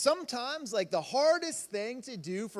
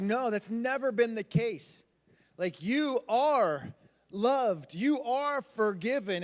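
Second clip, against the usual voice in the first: gentle reassurance; 2 semitones higher, slower than usual. Retold or imitated.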